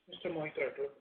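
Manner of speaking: normal talking voice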